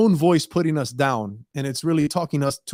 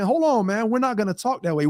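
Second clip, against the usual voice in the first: higher-pitched, mildly firm objection; putting foot down; 5 semitones higher than usual. Acted. Putting your foot down with your inner voice, mildly firm. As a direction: push back with a touch of authority. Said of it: "putting your foot down and saying".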